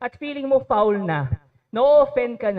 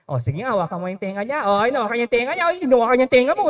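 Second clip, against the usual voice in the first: egging on; much faster than usual. Retold or imitated. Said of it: "may mga mangsusulsol".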